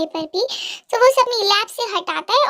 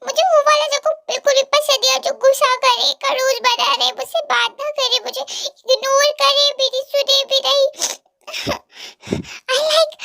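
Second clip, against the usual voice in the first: heroine voiced higher, hurt and sulky; teary heroine scolding; 4 semitones higher than usual. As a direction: scold him like a girlfriend who has been crying. Heroine pleading with Jungkook. (रोई हुई लड़की की रूठी आवाज़)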